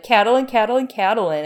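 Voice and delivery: high, loud whiny chant of a name; whiny jealous sibling. Retold or imitated. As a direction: moan the name like a jealous little sister. Marcia Marcia syndrome parody.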